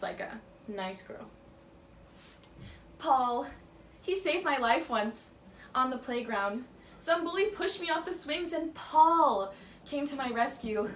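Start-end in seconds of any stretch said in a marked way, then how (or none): 3.0-10.9 hammed-up fond testimonial, drawn out on key words; gushing childhood friend. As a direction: gush over a childhood hero. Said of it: "I'll pretend to be the childhood best friend".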